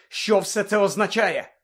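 high, slow, pressing question; can't hold it in any longer; impatient demand. A narrator's reading. Harry to his professor, demanding answers, high and urgent. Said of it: "не витерпів Гаррі".

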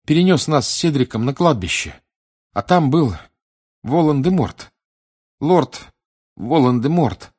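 high, loud, distressed report in broken phrases; boy in shock. Acted. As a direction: gasp out the terrible news. (потрясённый мальчик, высоко и надрывно)

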